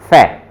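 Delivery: फै said with a clear f; German f sound. Shown as a demonstration. Teacher models फै for students. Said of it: "इस फाउ को बोला जाता है".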